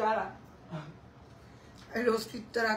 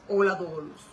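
a low voice imitating Mado's greeting; Mado impression; 5 semitones lower than usual. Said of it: "Habla como el Roberto".

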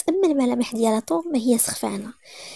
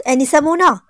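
loud call across the office; 3 semitones higher, 5 dB louder than usual. Acted. Boss shouting for his secretary, loud call. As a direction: shout her name to summon her. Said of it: "كيغوت على".

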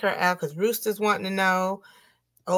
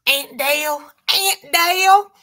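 high playful name call, climbing higher and louder; 8 semitones higher, 6 dB louder, slower than usual. Pretend. Host playfully hails the auntie streamer, high and rising.

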